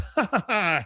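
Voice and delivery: high, put-on chuckle; mock condescending laugh. Yogi answering Hank's question about starting yoga, mock condescending laugh.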